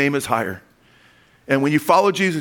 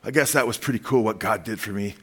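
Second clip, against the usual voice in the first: grudging miser; 5 semitones lower than usual. Retold or imitated. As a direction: mimic a stingy, half-hearted thanks. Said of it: "like a miser and say".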